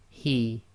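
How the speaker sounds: soft breathy h from the throat. Shown as a demonstration. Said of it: "a soft ha coming from the bottom of the throat".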